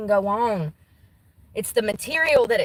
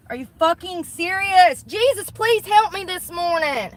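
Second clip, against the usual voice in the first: real exasperation breaking out, pitched up; exasperated outburst; 6 semitones higher than usual. Real, not acted. Struggling to put on her bra in the car, exasperated. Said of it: "I'm so annoyed".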